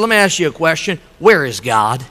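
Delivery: low, measured stern questioning; stern preacher. Acted. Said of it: "looks at him very sternly".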